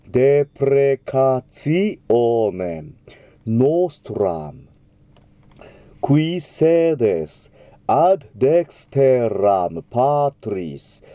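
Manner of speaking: デプレカツィオネン with a clear ツィ, slow; ツィ sound. Shown as a demonstration. Teacher modelling the ti before O. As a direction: stress ツィ in デプレカツィオネン. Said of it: "ツィという発音になります".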